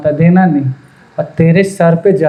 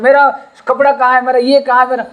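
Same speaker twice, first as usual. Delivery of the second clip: higher, nagging whine for his clothes; pestering demand; 6 semitones higher than usual. Retold or imitated. Younger brother nagging his brother's wife, whiny demand. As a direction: play the bratty younger brother calling for his things.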